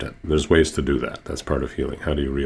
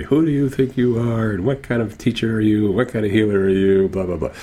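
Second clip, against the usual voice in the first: mock angry tirade, pitched up high; high indignant rant, retold; imitated yelling; 6 semitones higher than usual. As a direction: imitate an outraged patient telling someone off, not full volume. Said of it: "she was yelling at me".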